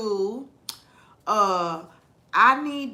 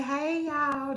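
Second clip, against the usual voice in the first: drawn-out Southern greeting; demonstrating a Southern hello; Southern accent; 3 semitones higher, 3 dB quieter than usual. Shown as a demonstration. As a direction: say it with a Southern drawl. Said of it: "That's not Florida accent".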